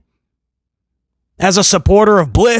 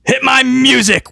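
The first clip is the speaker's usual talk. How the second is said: hit my music; 5 semitones higher than usual. Retold or imitated. Wrestler demanding entrance music.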